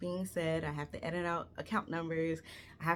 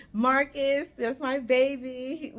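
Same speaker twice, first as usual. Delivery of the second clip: affectionate; 7 semitones higher, 8 dB louder, slower than usual. Real, not acted. Fond shout-out to friend.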